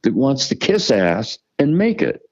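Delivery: rising, heated protest; getting worked up, voice climbing high; defiant rant. Real, not acted. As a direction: push back hard, pitch climbing. Defiant outburst about himself.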